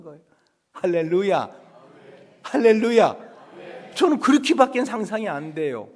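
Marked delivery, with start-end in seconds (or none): none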